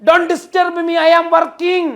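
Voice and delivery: loud, high, forceful English line. Shown as a demonstration. Husband barking at his wife over the phone, loud and forceful. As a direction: say it with full force to drive it home. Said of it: "അത്രയും ഫോഴ്സിൽ പറയുന്നതാ".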